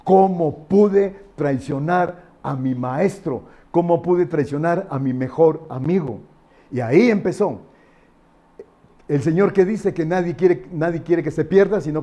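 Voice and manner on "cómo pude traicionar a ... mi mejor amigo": slow, understated anguish of remorse; a touch of bitter regret, acted; mild mock lament. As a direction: lament it slowly, without actual sobbing. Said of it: "llorando amargamente, llorando".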